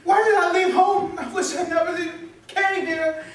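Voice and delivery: high-pitched breakdown with sobbing; crying. Acted. College student despairing alone over rejection, sobbing. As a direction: wail it out, overwhelmed and sobbing. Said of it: "Quit crying, little baby".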